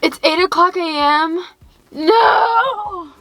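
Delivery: groaning crying no; dramatic whiny wail of protest; groggy college me. Retold or imitated. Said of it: "Me in college".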